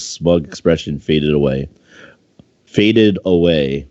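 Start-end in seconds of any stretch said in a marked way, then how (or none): 2.6-3.9 slow reread. Shown as a demonstration. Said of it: "Probably fading would have been better".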